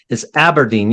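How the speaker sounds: Aberdeen said as AB-er-deen, first syllable like apple; careful corrected pronunciation of Aberdeen. Shown as a demonstration. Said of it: "I gotta always correct myself".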